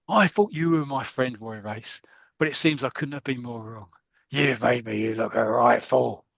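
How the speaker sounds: mildly hammed-up wounded anger; acted accusation of a betrayed friend; a touch of theatrical outrage; angry Blackie. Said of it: "this is angry Blackie".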